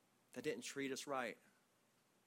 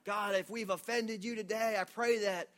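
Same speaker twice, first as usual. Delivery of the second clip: raised, louder formal prayer voice; solemn King James prayer; 6 semitones higher, 7 dB louder than usual. Retold or imitated. Pastor imitating student's fearful formal prayer, raised and loud. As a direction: pray grandly as if God might strike. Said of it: "even his prayer was like New King James Version".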